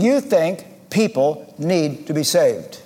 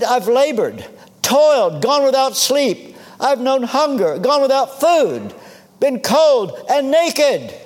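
higher, building list of hardships; impassioned recital; 5 semitones higher than usual. Retold or imitated. Preacher quoting Paul's sufferings to a congregation, impassioned recital. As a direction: ring out each hardship, pitched higher.

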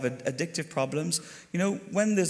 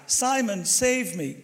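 high call of Simon, mild mock shout; retold shout from the back; 5 semitones higher, slower than usual. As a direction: call out to the preacher, imitating the drunk man. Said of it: "he would shout out from the back".

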